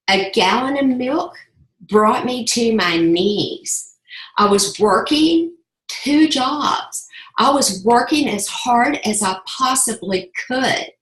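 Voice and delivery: pushing through tears; emotional. Real, not acted. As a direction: voice rising and straining, slowed. Emotional climax of her story.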